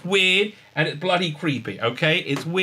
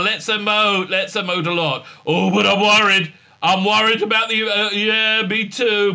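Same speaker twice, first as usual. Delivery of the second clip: higher, mock earnest voice; higher mocking emotional talk; 5 semitones higher, 4 dB louder than usual. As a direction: overplay the feelings. Parody of emotional chat.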